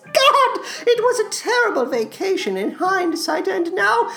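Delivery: eerie storytelling in a theatrical creature voice; Salad Fingers. Acted. Creature recounts begging on a hell vacation, plaintive and creepy. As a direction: lament with stretched, quavering vowels.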